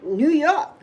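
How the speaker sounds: light New York accent demo. Shown as a demonstration. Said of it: "I have my New York accent".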